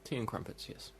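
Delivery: put-on posh English, softly echoing; mock posh English accent. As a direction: play along in posh English. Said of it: "do a very posh accent".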